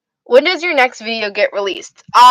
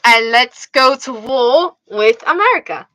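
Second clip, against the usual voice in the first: rallying in a put-on British accent; playful British accent; 3 semitones higher, 3 dB louder than usual. Shown as a demonstration. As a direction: declare it in a mock British accent. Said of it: "doing a British accent".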